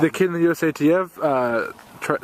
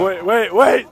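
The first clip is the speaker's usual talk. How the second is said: shouting over wind; 5 semitones higher, 7 dB louder, much slower than usual. Real, not acted. Calling out before a jump.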